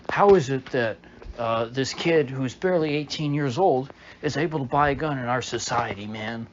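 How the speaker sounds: a touch of a whiny agitator, loud at the start; lightly sending up an indignant heckler; mocking Beto. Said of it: "it was something stupid like".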